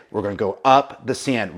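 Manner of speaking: rallying the men. Retold or imitated. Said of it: "And so he would say".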